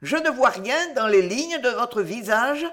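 madwoman consenting. Acted.

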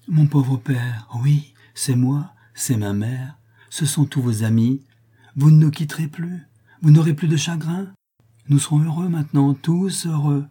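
gently convince a confused father all is well; earnest, moved daughter's promise; tender reassurance. A narrator's reading.

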